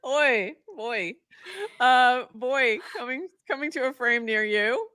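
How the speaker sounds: mock coming-soon promo; trailer voice. Movie trailer style announcement.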